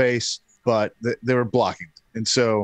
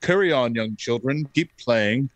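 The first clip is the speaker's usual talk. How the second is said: breezy dismissal; 2 semitones higher than usual. Retold or imitated. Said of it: "J W is just like".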